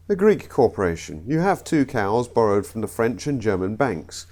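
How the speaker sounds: comic put-on Greek accent. Comedian telling the Greek two-cow joke, Greek accent. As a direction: try a rough Greek accent. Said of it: "I know the accents were awful".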